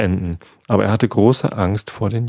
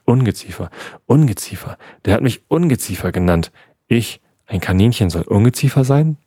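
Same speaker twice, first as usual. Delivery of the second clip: empört; 2 semitones higher than usual. Acted. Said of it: "Coco schnappte empört nach Luft".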